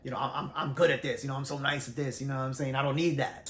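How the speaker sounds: mock cocky brush-off; lightly voiced boastful partner. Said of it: "He was also cocky".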